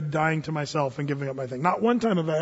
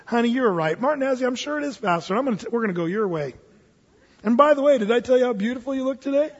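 mock sweet husband; 4 semitones higher, faster than usual. Husband yielding sweetly in story.

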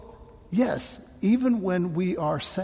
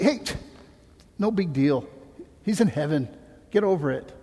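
mock dismissive. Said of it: "did Jesus say".

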